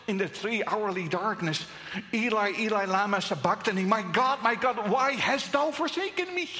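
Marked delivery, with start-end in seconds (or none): 2.1-6.5 a lightly voiced cry of anguish; cried out. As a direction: call it out toward heaven, a bit louder. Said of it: "He cried out".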